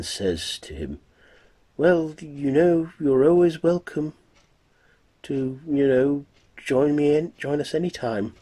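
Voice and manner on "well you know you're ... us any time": much higher and louder, gushing invitation; Lucy's eager flirt. Acted. Lucy urging Dracula to visit any time, high and loud. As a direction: push Lucy's voice up and out, all eager.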